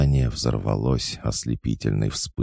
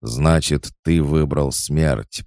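higher, louder, slow doom; shouted verdict; 5 semitones higher, 5 dB louder, slower than usual. A narrator's reading. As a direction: pronounce his death with a shout. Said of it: "прокричал бог". (громкий медленный приговор)

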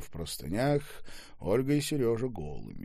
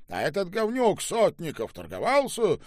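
eager questioning; 11 semitones higher, 7 dB louder than usual. Acted. Eager questioning, others laugh.

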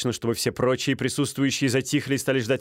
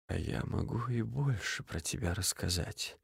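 icy duelist; 11 dB quieter than usual. A narrator's reading. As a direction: speak softly, contemptuous. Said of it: "прибавил Стужев".

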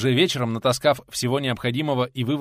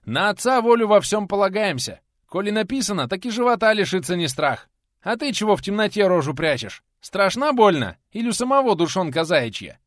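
defiant shouting; 9 semitones higher, 7 dB louder than usual. Acted. Teacher defies robber.

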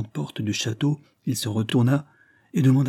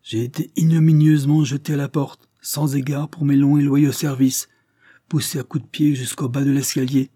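higher, louder, stressed grievance; emphatic indignation; 5 semitones higher, 5 dB louder than usual. A narrator's reading. Servant recounts being thrown out, emphatic indignation. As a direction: hammer out the outrage phrase by phrase. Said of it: "répondit en appuyant sur chacune de ses paroles".

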